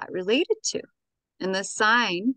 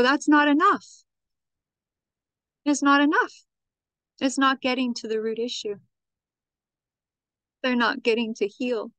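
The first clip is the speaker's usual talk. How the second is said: passionate outcry; 4 semitones higher than usual. Retold or imitated. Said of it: "And I go".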